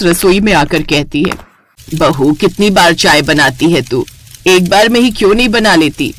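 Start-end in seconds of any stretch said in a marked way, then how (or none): 1.9-6.1 lower, nagging elder; a hint of a stern mother-in-law; scolding mother-in-law. Mother-in-law scolding the bride, lower nagging voice.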